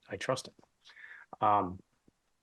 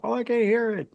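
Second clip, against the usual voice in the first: high, raised mock holler; retold shout back; 12 semitones higher, 6 dB louder than usual. Guy on other side calling back, retold holler.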